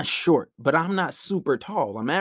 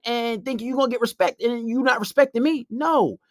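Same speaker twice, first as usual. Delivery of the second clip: heated comeback; 7 semitones higher than usual. Retold or imitated. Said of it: "I was like".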